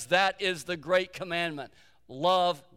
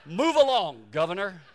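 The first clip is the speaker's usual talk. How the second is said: laughing brush-off; 6 dB louder than usual. Retold or imitated. Chicken lady dismissing the governor, laughing. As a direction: shoo him away with a laugh.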